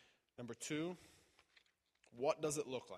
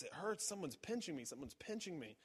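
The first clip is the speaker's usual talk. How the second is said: higher voice, imitating a woman in pain; a hint of alarm in her plea; mild pained cry; 4 semitones higher than usual. Retold woman being prayed for, lightly voiced pain. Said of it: "she says".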